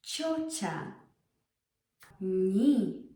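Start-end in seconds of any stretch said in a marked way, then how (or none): 2.2-3.0 a short, hard ni, no glide; short sharp ni. Shown as a demonstration. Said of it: "So short, sharp".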